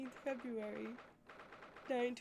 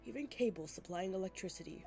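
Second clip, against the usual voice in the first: stately judge. Acted. Voices the Lord Chief Justice.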